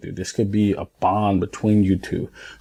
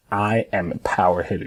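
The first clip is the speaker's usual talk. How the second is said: firm, deliberate declaration of "I am a power hitter"; with conviction. Shown as a demonstration. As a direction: say it like you mean it. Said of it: "You see how I, like, said it and you can feel it?".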